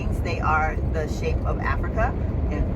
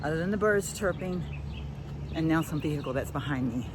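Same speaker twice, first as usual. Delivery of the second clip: panting between phrases; breathless after the climb; out of breath; 9 dB quieter than usual. Real, not acted. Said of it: "I'm completely out of breath".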